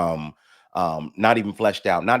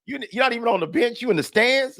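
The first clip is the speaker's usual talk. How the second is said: laughing; 12 semitones higher than usual. Real, not acted. Teasing guest, laughing.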